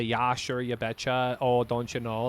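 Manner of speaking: lightly imitated upper Midwest accent, long rounded oh; a hint of Minnesota twang, tossed off. Caster showing his home region's accent, mild upper Midwest. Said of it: "a little bit of an accent".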